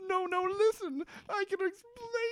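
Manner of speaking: very high, fast, whiny plea on the verge of tears; mock teary pleading. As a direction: overact a panicked brother begging through tears. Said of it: "the brother's also, like, on the verge of tears".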